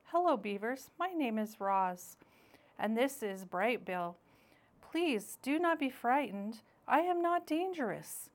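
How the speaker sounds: a calm robot reassuring the beavers; a hint of a gentle machine voice; robot Roz.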